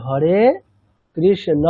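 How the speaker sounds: হরে কৃষ্ণ with a clear open অ, not ও; শুদ্ধ সংস্কৃত উচ্চারণে হরে কৃষ্ণ; Sanskrit pronunciation. Shown as a demonstration. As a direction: say হরে কৃষ্ণ the Sanskrit way, every vowel crisp. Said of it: "সংস্কৃতে বললে কৃষ্ণ".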